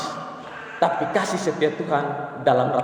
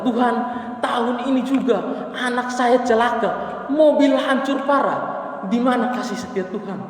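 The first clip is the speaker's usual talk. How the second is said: anguished lament; 10 semitones higher than usual. Acted. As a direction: wail it out like a broken man praying. Husband cries out in prayer. (ratapan suami yang memelas, tinggi dan lambat)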